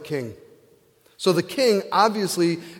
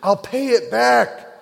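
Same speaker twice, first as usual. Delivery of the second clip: begging; 5 semitones higher than usual. Acted. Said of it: "begged him".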